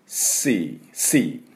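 long sea with an ee; English sea. Shown as a demonstration. Teacher modelling シー for students. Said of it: "一般的には、あの、シー".

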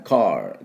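「カー」を英語風にR入りで; 「カー」は車のcarと同じ音; 英語のcarの音. Shown as a demonstration. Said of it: "最初のところは車と一緒ですね". (手本として「カー」を英語のcarで)

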